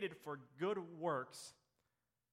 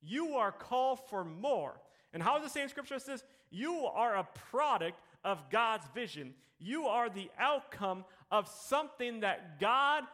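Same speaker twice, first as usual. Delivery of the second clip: building preaching. Real, not acted.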